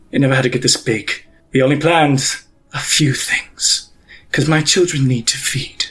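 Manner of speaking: cold, measured verdict from a ruthless matriarch; menacing pontiff. Acted. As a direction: pass sentence without raising your voice. Pontiff villain monologue.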